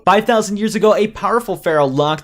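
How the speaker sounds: villain recounting an ancient legend; theatrical villain. Acted.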